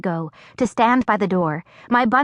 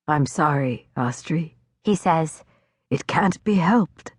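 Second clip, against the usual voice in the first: gentle apology; 4 semitones lower than usual. A narrator's reading. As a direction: say goodbye tenderly and helplessly. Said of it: "almost tenderly".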